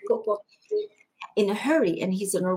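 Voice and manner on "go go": very high, hurried go go; urgent shooing. Retold or imitated. Pope pushing her out, urgent high shooing. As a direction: shoo her away fast and high.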